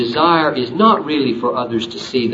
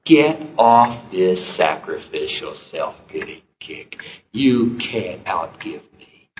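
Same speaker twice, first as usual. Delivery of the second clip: firm rebuke; slower than usual. Retold or imitated. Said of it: "That's what I think Jesus said".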